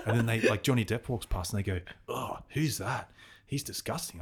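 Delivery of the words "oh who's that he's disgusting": slow, drawn-out 'eww' tone, lightly acted; mock disgust. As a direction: imitate disgusted girls, higher and softer. Disgusted girls voiced in retold story.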